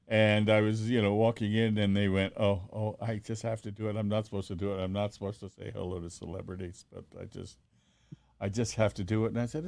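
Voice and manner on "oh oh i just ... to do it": softer, breathless star-struck confession; half-whispered, as if confessing a guilty thrill; hushed fan voice. Retold or imitated. School fan admitting to a celebrity that she must say hello, hushed.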